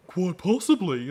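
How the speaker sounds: limp, slow mopey reply; mock mopey Lorne voice; lame deadpan. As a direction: say it slowly, lamely giving in. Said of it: "so lame the way he says it".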